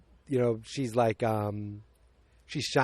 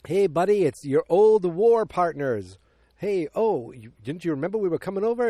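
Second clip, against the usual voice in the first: hearty greeting; 5 semitones higher, 5 dB louder than usual. Retold or imitated. War buddies arrive at door.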